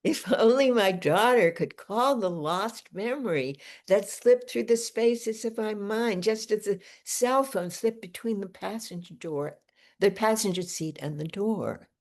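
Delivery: phrased, lilting poetry recital; poem reading. Acted. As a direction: read the poem aloud with deliberate pauses. Reads own poem aloud.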